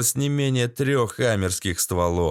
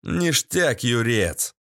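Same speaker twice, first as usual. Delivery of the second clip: pleased; slower than usual. Acted. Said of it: "обрадовался я".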